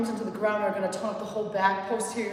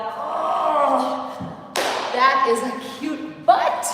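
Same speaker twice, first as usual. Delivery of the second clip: playful exclaim; 3 semitones higher, 6 dB louder, much slower than usual. Real, not acted. Playful exclaim at booty band.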